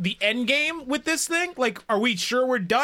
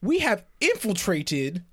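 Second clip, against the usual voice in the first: put-on Southern accent; 3 semitones lower than usual. Player to the prisoner, Southern accent getting thicker. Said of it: "Getting more southern as we go".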